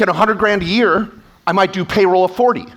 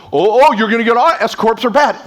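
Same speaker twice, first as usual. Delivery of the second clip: a touch of mock panic, a bit louder; mock scared accountant; 4 semitones higher, 4 dB louder than usual. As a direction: imitate a jumpy, nervous accountant. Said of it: "scared of their own shadow go".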